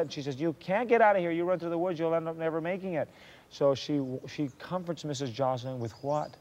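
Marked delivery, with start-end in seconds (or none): 0.4-3.1 urgent warning. Retold or imitated. Mary warns her friend.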